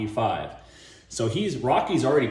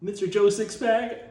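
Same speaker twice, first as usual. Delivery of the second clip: much higher, loud mock call; mock server voice; 10 semitones higher, 3 dB louder than usual. Server stopping Joe Sixpack, squeaky and loud. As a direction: stop the customer in a squeaky voice. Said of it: "the person's like".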